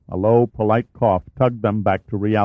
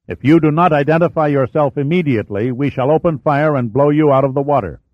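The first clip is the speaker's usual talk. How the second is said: loud threat; 4 semitones higher, 3 dB louder than usual. Acted. Threat to open fire.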